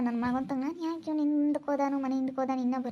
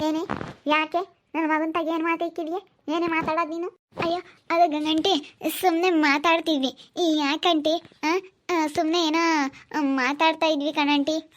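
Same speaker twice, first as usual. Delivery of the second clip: put-on higher young woman, nervously brushing it off; girl answering the suspicious aunt in a raised voice; young woman's voice; 3 semitones higher than usual. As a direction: play the girl caught out, pitched up. Mother confronts girl, girl answers.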